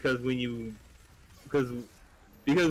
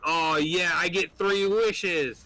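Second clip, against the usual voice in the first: excited bear; 6 semitones higher, 3 dB louder, much slower than usual. Acted. Bear voiced in joke.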